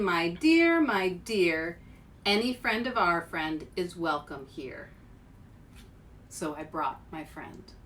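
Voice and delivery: slow storybook reading; reading aloud. Acted. Reader sharing a favorite picture book, storybook voice. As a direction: read it gently to young listeners.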